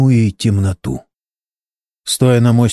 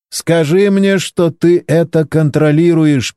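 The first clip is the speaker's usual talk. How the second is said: higher, worried plea; nervously begging for reassurance; anxious; 6 semitones higher, slower than usual. A narrator's reading. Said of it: "переживал Валерий". (встревоженно)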